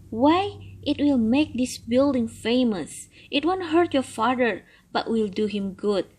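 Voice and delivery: put-on an old turtle longing for freedom; grumbling old turtle. Turtle voiced in story.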